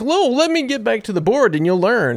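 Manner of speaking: high-pitched, peppy teacher impersonation; pizzazz and energy. Retold or imitated. Instructor eagerly returning to the board, mimicked pizzazz. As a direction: bounce brightly back into teaching, hammed-up. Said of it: "had all this pizzazz and energy".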